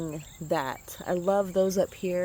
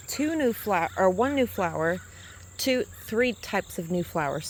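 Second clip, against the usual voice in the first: stumbling over the count with false starts; real tongue-tied muddle; 4 dB louder than usual. Real, not acted. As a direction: trip over your words and correct yourself. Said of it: "tongue-tied".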